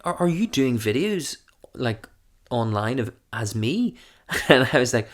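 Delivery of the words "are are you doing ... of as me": posh friend asking haltingly, high at first; Mark, polite and posh. Retold or imitated. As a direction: imitate a polite posh man's tentative question. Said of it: "he's so polite and posh".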